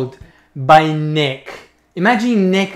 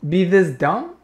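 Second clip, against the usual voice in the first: loud, high laughing outrage; laughing disbelief; 6 semitones higher, 6 dB louder than usual. Real, not acted. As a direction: crack up while asking.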